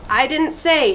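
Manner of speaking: high, insistent shout; little sister shouting. A narrator's reading. Little sister shouting to Mom, defensive. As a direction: blurt it out defensively. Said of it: "she sa-, shouted".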